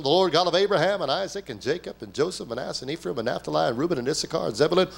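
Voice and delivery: a hint of a droning church prayer; mock pious prayer. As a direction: parody a showy fundamentalist prayer. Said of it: "the jargon and the rhetoric of fundamentalism".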